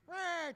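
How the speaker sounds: high "rah" of manic chatter; mock babble noise. Comic doing bumps in the alley, imitated jabbering noise. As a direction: blurt a noise imitating nonstop coked-up talk. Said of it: "talking up a storm".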